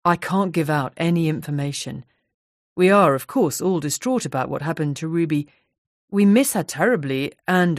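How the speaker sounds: politely firm refusal, barely shifted from narration; Grant, lightly voiced. Office manager Grant refusing politely.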